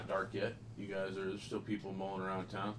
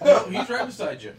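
laughing; 14 semitones higher, 17 dB louder than usual. Real, not acted. GM laughing at the player's reaction.

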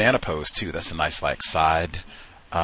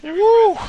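loud whoop; 7 dB louder than usual. Real, not acted. Host exclaims.

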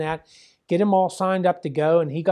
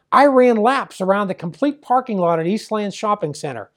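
mildly excited son, louder at the start; retold excitement; 3 semitones higher, 5 dB louder than usual. Son telling dad about training, lightly imitated excitement. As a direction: recount it like a keyed-up kid, lightly imitated. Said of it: "He's all excited".

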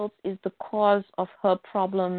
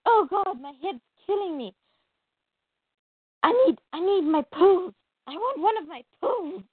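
whiny complaint; 6 semitones higher than usual. Retold or imitated. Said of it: "then she's like".

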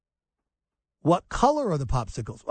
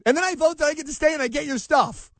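mock immigrant voter; 8 semitones higher, faster than usual. Mocking immigrant voter escalating.

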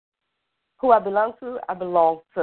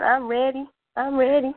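excited; 9 semitones higher than usual. Real, not acted. Guest hyped to begin readings.

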